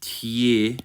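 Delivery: "tie" as tyih, short lax i; correct unstressed vowel. Shown as a demonstration. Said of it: "you would actually pronounce this as".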